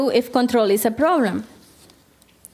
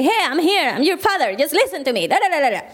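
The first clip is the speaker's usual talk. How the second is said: higher-pitched nagging father, only mildly raised; mock parental yelling; 4 semitones higher than usual. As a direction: imitate a parent yelling for attention, without real volume. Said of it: "We yell to say".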